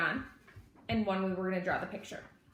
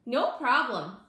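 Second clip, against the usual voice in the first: cheerful little voice; 4 semitones higher, 6 dB louder, slower than usual. Acted. Lulu answering proudly.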